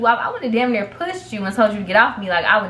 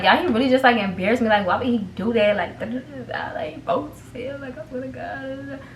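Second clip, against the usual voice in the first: mock crying; 3 semitones higher, 4 dB quieter than usual. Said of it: "I started crying a little bit".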